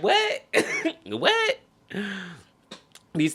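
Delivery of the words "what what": incredulous laugh. Real, not acted. Laughing in disbelief.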